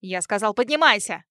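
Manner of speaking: builds to a loud shouted order; yelling husband. A narrator's reading. Husband screaming at his terrified wife, loud angry shout. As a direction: bark the command at her. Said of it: "заорал муж".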